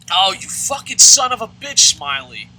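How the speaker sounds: high, loud burst of real cursing; angry outburst. Real, not acted. Gamer cursing his player mid-game, angry shout. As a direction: explode at the player, voice shooting up.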